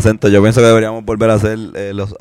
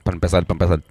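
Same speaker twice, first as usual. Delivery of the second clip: put-on Boston accent; 4 semitones lower, 4 dB quieter, much faster than usual. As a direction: try a Boston accent for fun. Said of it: "El de Boston".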